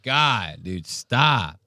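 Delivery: drawn-out mock dismay; imitated audience girl. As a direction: lightly mimic a fed-up heckler, stretching "Oh my God". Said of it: "I love that girl. She goes".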